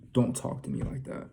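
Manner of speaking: restrained retold sternness; stern and authoritative. Dreamer confronting the man who yelled, understated stern warning. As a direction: lay down the warning sternly, without raising your voice. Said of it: "very sternly, too".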